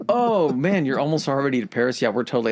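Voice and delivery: sudden high-pitched eager sidekick; mock eager Italy. Host voices Italy cheering on Germany, high and eager. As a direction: gush like a latecomer wanting in.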